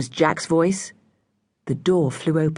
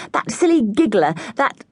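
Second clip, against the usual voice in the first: groaning; 5 semitones higher than usual. A narrator's reading. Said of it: "everyone groaned".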